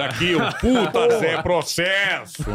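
slow radio host introduction; Emílio. Retold or imitated. Imitating the host roasting a guest, slow announcer drawl. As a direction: stretch it out like a host presenting a guest. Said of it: "fica imitando o Emílio".

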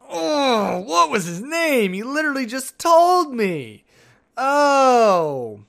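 high, slow, strained panic over a forgotten name; hammed-up high panic voice; panicked inner voice. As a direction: squeal it out in mock horror.

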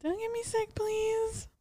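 high, whiny begging; whiny plea. Real, not acted. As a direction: beg playfully in a high whine. Pleading jokingly with cohost.

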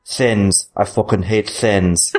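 slow, weighty quote delivery; performed show quote. Acted. Podcaster performing his favourite quote from the episode, slow character delivery. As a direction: say it slowly, each word set apart. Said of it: "My quote is".

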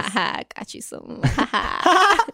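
put-on cutesy whispered baby voice. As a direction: coo it like talking to a baby. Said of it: "talk full on baby voice".

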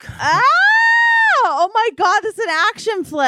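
high-pitched play scream into fast babble; hammed-up action-scene alarm; mock panic. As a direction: shriek as if on a runaway sled. Acted panic as sled takes off.

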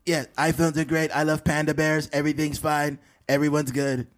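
choppy presidential parody; Donald Trump. Acted. President approving of iPhones and pandas, Trump impression. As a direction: approve of everything in bullet points. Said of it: "Donald Trump s-, talks in, like, bullet points".

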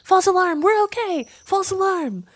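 very high little bird cries; swifts echoing the call. A narrator's reading. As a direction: pipe the all-clear like a flock. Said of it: "picked up the call".

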